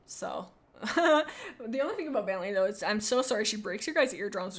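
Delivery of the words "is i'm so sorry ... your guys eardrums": ordinary delivery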